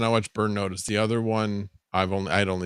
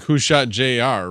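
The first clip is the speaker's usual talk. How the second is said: slow, raised mock question; quoting a friend; 5 semitones higher, 4 dB louder, slower than usual. Friend's question quoted slowly and mockingly. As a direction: toss out the old TV catchphrase slowly. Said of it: "Hyrule Farm says, or was like".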